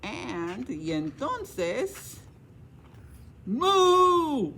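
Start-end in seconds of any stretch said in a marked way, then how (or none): 3.5-4.5 a big, higher booming moo; scary mock cow moo; loud moo. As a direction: moo loud to scare him. Animals scare the farmer.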